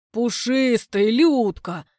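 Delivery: tripping over his words in eagerness; babbling. A narrator's reading. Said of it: "лепечет Толя, захлёбываясь". (лепечет, захлёбываясь)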